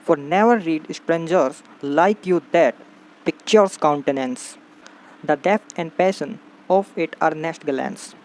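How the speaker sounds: very slow, phrase-by-phrase poem reading; poem recitation. A narrator's reading. Teacher reading Browning's poem to students, slow recitation. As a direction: recite verse slowly with long pauses. Reads the poem's lines aloud.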